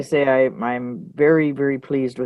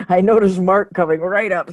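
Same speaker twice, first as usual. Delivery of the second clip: chuckling through the words, a bit louder and higher; laughing; 4 semitones higher, 4 dB louder than usual. Real, not acted. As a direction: laugh while you say it. Laughing at Mark's camera moment.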